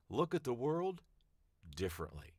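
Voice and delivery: world rising high, then differently dropped low; a split read, world high and rising, differently low and falling. Shown as a demonstration. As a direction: lift look at the world up high and let differently fall low. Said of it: "the same sentence five different ways".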